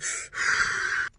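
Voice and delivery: long, soft exhale; imitated dab hit. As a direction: breathe out easily as if smoking. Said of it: "when he hit it, it was".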